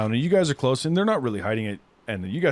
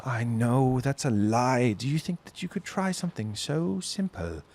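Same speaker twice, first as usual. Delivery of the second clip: cold elf; 2 semitones higher than usual. Acted. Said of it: "he goes".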